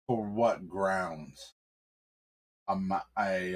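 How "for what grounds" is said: slow, low menacing question; low-toned man. Acted. Stranger questioning the arrest, slow and low. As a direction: drag it out low and steady. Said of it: "man in a really low tone voice".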